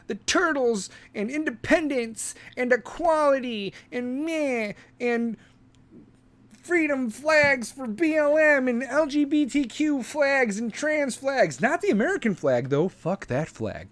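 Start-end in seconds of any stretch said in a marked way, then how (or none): 0.0-11.6 a higher, slow, airy mocking drone; mock young activist. Mocking the younger generation, higher slow parody voice. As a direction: list the causes like a dreamy kid. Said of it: "and they're like".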